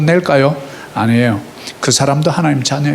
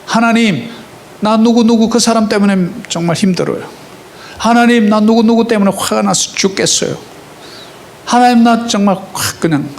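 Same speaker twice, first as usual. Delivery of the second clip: mock angry prayer; 5 semitones higher than usual. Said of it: "기도".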